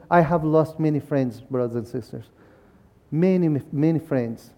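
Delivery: quiet, choked-up grief over lost friends; emotional. Real, not acted. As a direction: let real grief pull the voice down softly. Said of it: "I apologize if I get a, a little bit, uh, uh, emotional".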